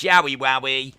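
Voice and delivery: mock wrestling promo, big and loud; Bray impression. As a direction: boom it out like the wrestler crashing the show. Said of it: "He goes".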